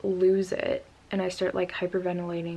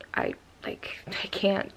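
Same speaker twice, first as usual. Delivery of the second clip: whispered, helpless; retold whisper; 4 dB quieter, slower than usual. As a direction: breathe it out in a panicked whisper. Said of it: "So then I'm like".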